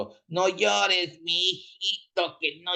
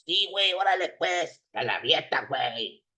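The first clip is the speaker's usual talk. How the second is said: grumbling fan goodbye; 2 semitones lower than usual. Acted.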